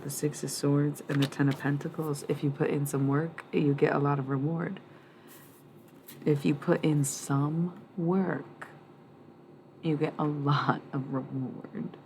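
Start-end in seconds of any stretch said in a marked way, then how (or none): 6.2-12.0 words stretched out slowly; slow, drawn-out reading. Shown as a demonstration. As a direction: spell it out slowly, word by word. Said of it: "Kinda sounds wrong".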